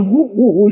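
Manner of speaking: aboiement imité, grosse voix légère; aboiement de chien. Retold or imitated. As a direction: imiter un chien qui aboie, sans trop forcer. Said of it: "avec une grosse voix en train d'aboyer". (aboiements de chien imités à mi-voix)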